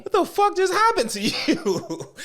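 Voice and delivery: high, slow, laughing; laughing disbelief. Real, not acted. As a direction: laugh through the question. Mocking character on screen.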